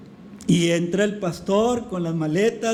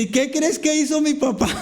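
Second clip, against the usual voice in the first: hint of the daughter; 6 semitones higher than usual. Daughter retells to preacher.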